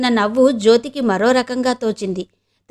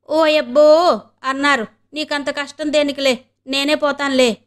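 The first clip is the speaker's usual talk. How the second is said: mocking maid; 3 semitones higher than usual. Maid mocks the mistress.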